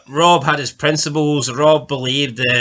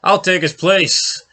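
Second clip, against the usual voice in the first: mild mock plea, pitched up; half-hearted imitation of begging; Caitlyn begging; 5 semitones higher, slower than usual. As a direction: plead lightly in a raised voice, drawing out the end. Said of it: "I also have Caitlyn begging".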